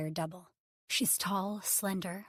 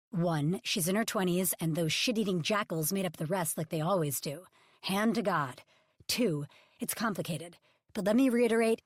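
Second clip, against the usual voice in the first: growl; 5 dB louder than usual. Acted. Ridge growling his three points at Bebe, louder. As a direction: tick off the points with contempt. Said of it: "he growls".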